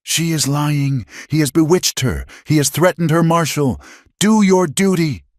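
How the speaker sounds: high, shrill-pitched shriek of protest. Acted. Finch shrieking at the marshal to act. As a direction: shriek at the marshal to do his duty. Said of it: "Finch's voice exploded in a shriek".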